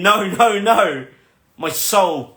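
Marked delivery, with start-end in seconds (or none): 0.0-1.1 mock scream. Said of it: "my head and my heart was screaming".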